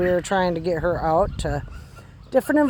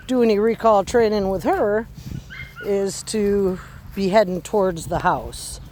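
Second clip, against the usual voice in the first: ordinary talk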